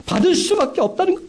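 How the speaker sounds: 훨씬 높은 목소리로 힘주어 확언; 확신을 끌어올려 외치듯; 확신의 강조. Acted. (높이 치켜 올린 확언)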